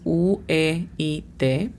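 U E I T, one sound at a time; phonetic spelling. Shown as a demonstration. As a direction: spell out U E I T for a learner. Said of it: "La pronunciación fonética de weight es". (deletreo fonético de U E I T)

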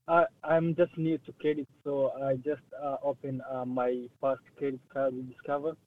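distant, echoing voice; speaking from across the car; far from mic. Real, not acted. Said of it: "you sound very far away".

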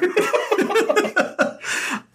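breathy high giggle, no voice; airy high laugh. Real, not acted. Cohost giggling before changing topic, airy laugh.

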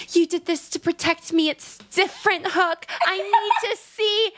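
high, pleading through a laugh; plead, cracking up; mock pleading, laughing. Tinkerbell insisting.

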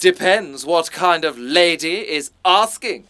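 refined posh delivery of a tough line; posh where Cockney is wanted; posh accent, first take. Acted. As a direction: says it in his plummy voice. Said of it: "You're far too posh, mate".

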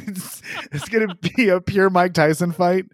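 high-pitched, talking through laughter; laughing incredulously. Real, not acted. Friend mocking the planned uppercuts in a fight, laughing. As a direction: crack up while getting the words out.

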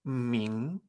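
"Ming" rising like a surprised question; drawn-out "Ming" with a questioning rise; second tone. Shown as a demonstration. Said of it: "me extraño".

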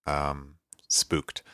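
breathy spooky whisper. Pretend. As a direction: whisper it like a ghost story. Jokey warning about a scary movie.

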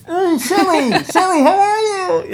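high, delighted hello through laughter; excited greeting. Retold or imitated. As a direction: greet her like an old friend, laughing. Retold greeting in the store.

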